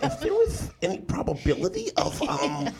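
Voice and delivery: overly polite nerdy asking, laughing; nerd voice. Pretend. Friend mimics a nerd asking for sex, mild nerd voice. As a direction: ask like a timid nerd. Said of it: "How the nerd asked".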